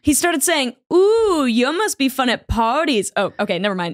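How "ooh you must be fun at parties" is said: snarky sarcasm. Retold or imitated. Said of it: "It's not in the baby accent. It's just regular".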